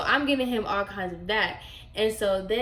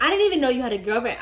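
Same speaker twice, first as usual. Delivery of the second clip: fast, raised-pitch bewilderment; confused disbelief; 3 semitones higher, 6 dB louder, much faster than usual. Retold or imitated. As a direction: blurt it out in baffled disbelief. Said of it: "that's why I was so confused".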